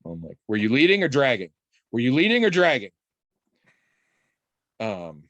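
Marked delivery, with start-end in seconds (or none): 0.5-1.5 mock drill instructor. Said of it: "whiplash that shit". 1.9-2.9 higher, louder barked repeat; mock stern band teacher. Uncle playfully drilling nephew, mock stern bark. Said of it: "whiplash that shit".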